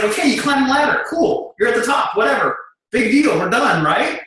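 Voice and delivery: mock dismissive. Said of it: "I was like".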